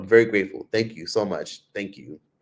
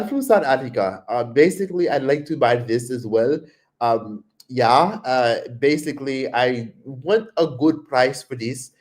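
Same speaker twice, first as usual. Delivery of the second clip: slowed, pitched-up Indian accent; imitated Indian accent. Shown as a demonstration. Showing chat how Tyler talks, mild Indian accent. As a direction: demo how Tyler bargains. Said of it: "that's how Tyler talks".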